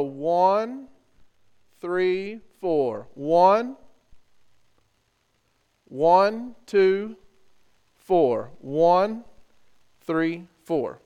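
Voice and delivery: loud count of the rhythm. Shown as a demonstration. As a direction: call out the beats loudly. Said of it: "So I'm gonna count it out for you first".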